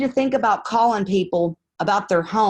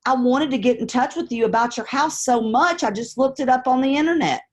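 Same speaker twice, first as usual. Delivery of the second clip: friendly caller demo; 3 semitones higher than usual. Shown as a demonstration. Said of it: "here's my answer".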